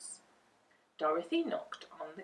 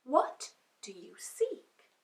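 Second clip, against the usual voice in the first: gentle whisper; 5 semitones higher than usual. A narrator's reading. Winged lady whispers to the Scarecrow. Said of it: "she said gently".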